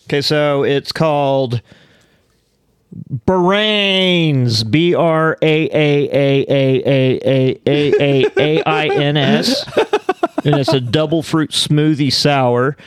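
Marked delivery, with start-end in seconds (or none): 3.3-9.7 drawn-out moaning braaains, slow; zombie. Pretend. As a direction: spell it out like a hungry zombie. Spelling out beer named Brains.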